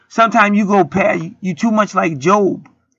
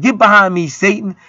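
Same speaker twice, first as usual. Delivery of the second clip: Jesus rebuking; 3 semitones higher, 3 dB louder than usual. Acted. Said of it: "Jesus spazzed out".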